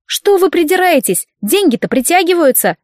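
high, outraged retort; indignant. Acted. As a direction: push back in mock outrage. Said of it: "возмутилась я".

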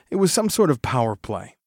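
ordinary delivery, nothing marked

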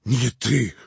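громко и высоко, в изумлении; переспроси, остолбенев; ошеломлённо. A narrator's reading. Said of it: "остолбенел Иван". (ошеломлённый громкий вопрос)

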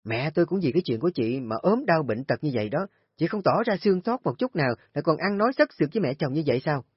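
tight, rising, fast as it boils over; held-back anger. Acted. Sister-in-law accuses Kim, restrained anger climbing fast. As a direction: swallow the rage but let it leak. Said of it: "nó cố gắng dằn cơn giận".

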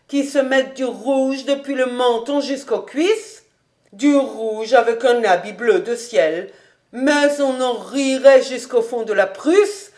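lightly voiced housekeeper, animated mockery; teasing old housekeeper. Housekeeper mocking master's wish for red, lightly teasing. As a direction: tease the master with lively emphasis.

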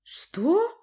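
high, loud startled question; shocked girl. A narrator's reading. Stunned daughter reacts to the accusation, shocked. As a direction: gasp it out in disbelief.

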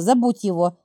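low, pressing, lightly voiced mother; firm insistence. Mother warning daughter to forget him, lightly pressing. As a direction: press the words down. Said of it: "с нажимом произнесла она".

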